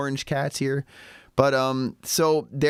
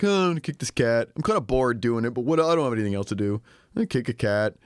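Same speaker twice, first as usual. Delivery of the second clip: bored; faster than usual. Retold or imitated. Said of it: "kinda apathetic, bored".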